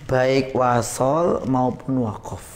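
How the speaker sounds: slow and deliberate, each word spaced; slow teaching emphasis. Shown as a demonstration. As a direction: lay the rule out word by word. (pelan dan tegas seperti guru)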